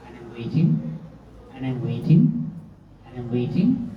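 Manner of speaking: rising lilt on each "waiting"; tedious waiting. Retold or imitated. Telling friends how the guru was late, tediously repetitive. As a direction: let every "waiting" hang upward, unfinished. Drags out a long wait in retelling.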